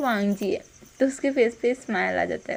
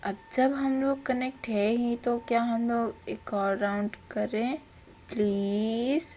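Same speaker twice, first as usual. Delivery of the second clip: coaxing plea; 5 dB quieter than usual. Retold or imitated. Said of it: "हम्म".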